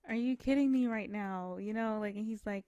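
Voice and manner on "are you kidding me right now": louder, higher thrilled disbelief; excited disbelief. Retold or imitated. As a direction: gasp it out, overjoyed and shocked. Girlfriend reacts to surprise trip.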